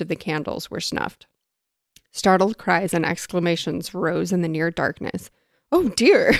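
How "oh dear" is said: higher-pitched, mock-dismayed "oh dear"; a little hammed-up alarm; dismayed exclamation. A narrator's reading. Minister's startled line in read story.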